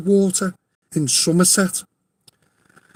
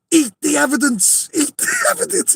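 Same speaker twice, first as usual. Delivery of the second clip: half-laughing mock shout, pitched up; 7 semitones higher than usual. Someone on the coach urging the thieves, laughing mock shout. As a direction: yell it gleefully, cracking up. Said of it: "someone shouted".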